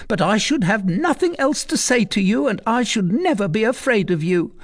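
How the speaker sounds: put-on defiant old woman. Recluse defying Tristan, bold. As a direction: show him no fear.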